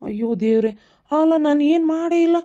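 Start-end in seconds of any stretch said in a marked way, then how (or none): 1.1-2.4 high, loud, drawn-out plea of innocence; desperate protest. Acted. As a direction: insist you did nothing. Husband pleading innocence. (ಜೋರಾಗಿ ನಿಧಾನವಾಗಿ ನಿರಪರಾಧಿ ಎಂದು ಅಂಗಲಾಚುವುದು)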